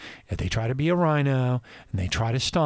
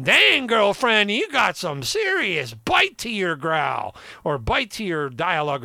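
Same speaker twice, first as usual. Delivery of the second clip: sassy reply; 5 semitones higher than usual. Retold or imitated. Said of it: "I'm, like, going".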